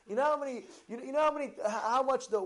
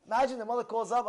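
ordinary talk

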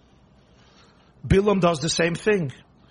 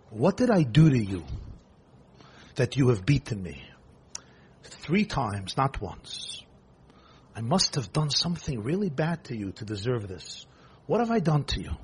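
pleading donkey; 3 semitones lower than usual. Acted. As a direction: ask gently why he was beaten. Donkey pleads after being beaten.

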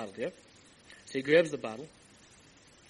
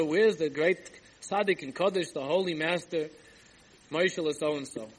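eager, louder call for the holy master; enthusiastic; 2 semitones higher, 5 dB louder, much slower than usual. Acted. Newcomer asks townsfolk for the great tzaddik, enthusiastic. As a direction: draw it out with keen enthusiasm. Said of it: "now he's not so enthusiastic".

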